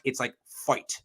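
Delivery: Midwest accent. Shown as a demonstration. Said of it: "That is very Midwest".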